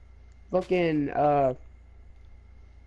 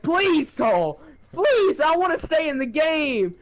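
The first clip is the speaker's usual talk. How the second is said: higher, whiny mock plea; mock begging; 9 semitones higher than usual. Opponent begging Cole to stay in the game, mock whiny plea. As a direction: beg him to spare you, half-joking.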